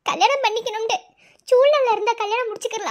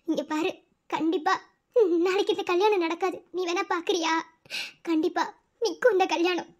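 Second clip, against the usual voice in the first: lower, softer, half-laughing warning; low taunting threat; 5 semitones lower, 5 dB quieter than usual. Acted. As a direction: quietly dare him. (தாழ்ந்த கேலி மிரட்டல்)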